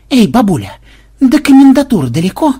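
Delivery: high, loud hail; calling out. A narrator's reading. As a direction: shout down to a granny from a moving cart. Hailing an old woman from cart.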